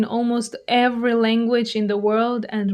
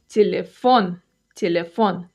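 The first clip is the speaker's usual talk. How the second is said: Телефон stressed at the end, те-ле-ФОН; teacher modelling end-stressed Телефон, lower in pitch; stress on last syllable; 4 semitones lower than usual. Shown as a demonstration. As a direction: put the weight on ФОН in Телефон. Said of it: "Stress is on the last syllable".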